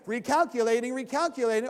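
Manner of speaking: loud repeated robotic nagging; GPS voice. Retold or imitated. Mimicking GPS for a lost driver, loud nagging robotic. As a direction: mimic the nagging navigator again. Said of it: "you hear the same thing".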